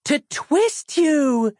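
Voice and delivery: put-on high, slow frightened child; small girl voice. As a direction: blurt it out like a scared little girl.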